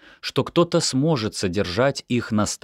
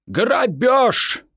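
a light echo of «Грабёж!», higher; echoing father; 4 dB louder than usual. A narrator's reading. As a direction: repeat «Грабёж!» after mother like an echo. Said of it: "как эхо повторил за ней отец". (эхом повторяет «Грабёж!»)

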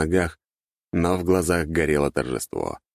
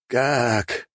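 shocked gasp; 7 semitones higher than usual. A narrator's reading. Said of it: "выдохнул он".

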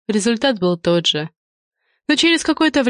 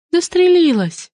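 squeaking; 11 semitones higher, 4 dB louder than usual. A narrator's reading. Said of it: "пискнула киска".

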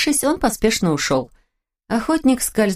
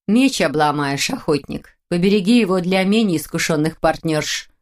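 contemptuous. Acted. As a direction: snort it off dismissively. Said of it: "презрительно фыркнула". (презрительно)

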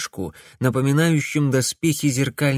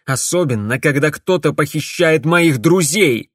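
angry; 4 semitones higher, 5 dB louder than usual. A narrator's reading. Alex angry at the witch.

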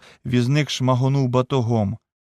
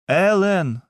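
tearful call; 7 semitones higher than usual. A narrator's reading. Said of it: "слізно загукала".

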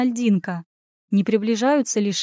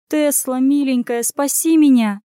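sobbing plea; 4 semitones higher, 5 dB louder than usual. Acted. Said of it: "всхлипнула Анюта".

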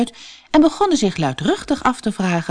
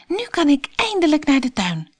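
put-on high, light girlish Alice voice; Alice's voice; 10 semitones higher than usual. A narrator's reading. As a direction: voice young Alice, dismayed and high. Alice hopeful. (hoog meisjesstemmetje van Alice, ontsteld)

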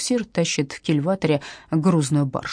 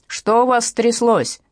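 slow, louder displeased boss; booming boss; 4 semitones higher, 4 dB louder, slower than usual. A narrator's reading. The chief demands answers from guards, booming and slow. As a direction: thunder it out like the chief. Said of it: "прогремел ... начальственный голос".

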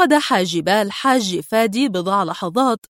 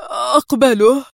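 eager, slightly raised acceptance; eager exclamation; 3 semitones higher, 4 dB louder than usual. A narrator's reading. The man accepting Adham's offer, eagerly exclaiming. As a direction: blurt out a yes. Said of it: "هتف الرجل".

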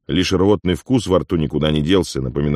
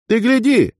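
much higher mock shout of delight; 3 dB louder than usual. Afonya greets Uigur at the tavern, a high joyful shout. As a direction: call out in glee. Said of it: "закричал он".

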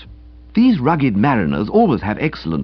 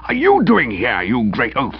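warming to his work. Acted. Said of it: "warming to his work".

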